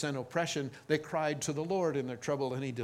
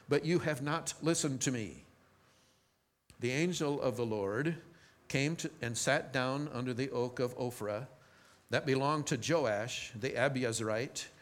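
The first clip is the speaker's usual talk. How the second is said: measured Bible reading voice; reading the Gideon story from the pulpit, steady and clear; scripture reading. Acted. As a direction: read the passage to the congregation. Reads Judges passage aloud.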